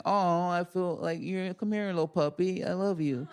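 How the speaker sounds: put-on baby talk to a little puppy; cooing to a puppy. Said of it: "then being like".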